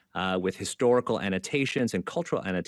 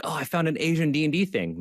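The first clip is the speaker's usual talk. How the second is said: lightly voiced mother, pitched up; imitated mother; 6 semitones higher than usual. Mother telling her kid about a game book she found, lightly imitated. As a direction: quote mom's innocent find in a higher voice.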